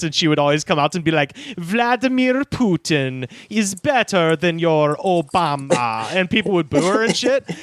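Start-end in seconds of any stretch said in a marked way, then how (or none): 1.6-6.1 slow, mock Russian accent; hammed-up Russian villainess accent. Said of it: "she spoke in a thick Russian accent".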